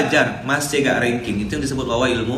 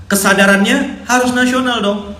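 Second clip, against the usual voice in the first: higher, louder exhortation; rallying call; 10 semitones higher, 6 dB louder than usual. Real, not acted. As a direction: push it like a rousing speech. Rallying the congregation.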